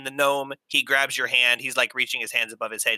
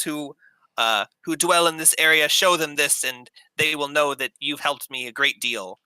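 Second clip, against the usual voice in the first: shy gnome; 4 semitones higher than usual. Acted. Gnome gives ring, blushing.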